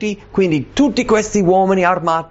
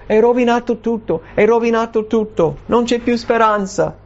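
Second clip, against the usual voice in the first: higher-pitched imitated lament; mock despair; 7 semitones higher than usual. Preacher voicing the faithful who thought all lost, high lament.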